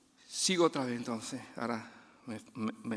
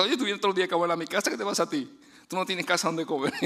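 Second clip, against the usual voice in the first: mock scolding; 4 semitones higher, 4 dB louder, faster than usual. Host mock-scolding a frequent guest.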